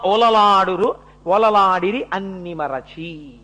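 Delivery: metrical chanted Telugu poem, lines stretched at the end; verse recitation. Acted. Preacher telling of parents' joy at a birth, chanted verse recitation. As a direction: recite in metre, drawing out the final phrases.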